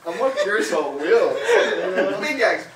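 laughing. Real, not acted. Laughing commentary.

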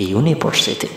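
"university" begun with a clear y, "yu-niversity"; initial Y sound. Shown as a demonstration. Teacher modelling the reading, "university" with y at the front. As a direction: say "university" starting like "you". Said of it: "cara bacanya itu diawali dengan Y".

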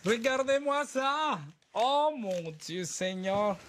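high, slow, amazed cry; awed exclamation. Real, not acted. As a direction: gasp it out in awe. Unboxing a Barbie.

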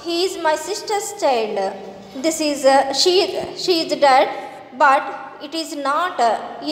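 slow, deliberate story reading; measured classroom narration with pauses; textbook read-aloud. A narrator's reading. Reads the English textbook story aloud.

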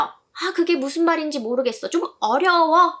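lightly voiced confused student; puzzled learner. Teacher voicing a puzzled viewer, mild. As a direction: act out a learner who doesn't get it. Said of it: "하시면요".

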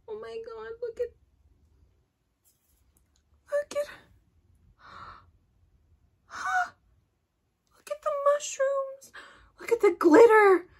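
very high whispered squeals of wonder; awed squeal. Real, not acted. Showing viewers the mushrooms, high breathless squeals.

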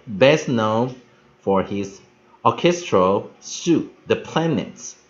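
slow English read-aloud in deliberate phrases; careful model reading. Shown as a demonstration. Teacher leads the last practice of the text, careful model reading. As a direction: read it out slowly for learners, phrase by phrase.

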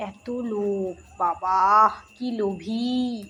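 low, drawn-out mock dismay; teasing reproach. Real, not acted. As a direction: chide the greedy dog in a low drawl. Teasing the dog as greedy. (নিচু গলায় টেনে টেনে খুনসুটি)

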